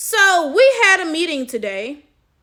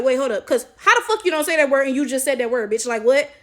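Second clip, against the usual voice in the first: incredulous comeback. Retold or imitated. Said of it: "So I'm like".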